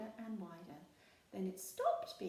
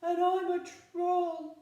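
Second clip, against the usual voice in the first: small voice; 10 semitones higher, 13 dB louder, slower than usual. A narrator's reading. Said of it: "in a very small voice".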